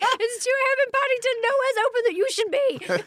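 high, fretting mock worry; worried. Friend fretting over her alone at Paddington, mock worried. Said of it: "I was like".

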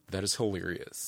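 put-on low, deadpan French accent; mock French diner, unimpressed. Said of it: "That was my French accent".

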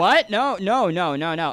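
high, loud, half-laughing panic; startled refusal. Retold or imitated. He refuses the strangers' car, high and startled. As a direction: squeal out the no's in alarm. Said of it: "And I was like".

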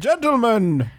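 high, slow hammed-up toff calling the room to order; pompous 1930s gentleman hushing a crowd; old-time chairman. Opening the neurology congress to the gentlemen, high pompous toff.

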